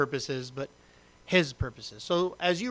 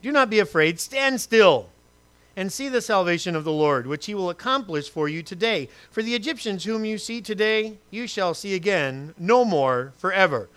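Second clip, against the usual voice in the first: preaching Moses; 2 semitones higher than usual. Acted. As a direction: proclaim it with fervor. Moses speech read aloud.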